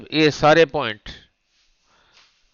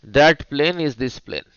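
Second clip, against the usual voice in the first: very slow drilled phrase; much slower than usual. Shown as a demonstration. Teacher drilling key term slowly.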